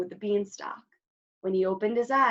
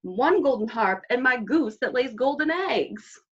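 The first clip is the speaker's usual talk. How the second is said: indignant giant; 3 semitones higher than usual. Acted. Giant lists his grievances.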